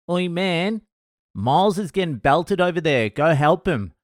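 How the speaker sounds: mock-urgent heads-up to a mate; urgent alert. Comedian alerting the host that Miles is getting belted, urgent. Friend comes over to alert him.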